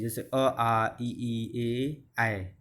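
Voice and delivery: "अ", "आ", "ई", "ए", "ऐ" drawn out slowly and softly; slow vowel demonstration. Shown as a demonstration. Teacher slowly sounding out unrounded vowels for the class. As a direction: sound each vowel slowly so the lips can be felt. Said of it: "वो अवृतमुखी होते हैं".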